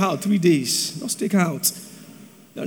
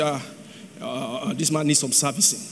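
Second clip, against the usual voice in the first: much softer and lower, muttering to herself; muttered aside; 8 semitones lower, 5 dB quieter than usual. Retold or imitated. Wife muttering to herself about her booming husband, softly. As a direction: mutter it under your breath. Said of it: "I say".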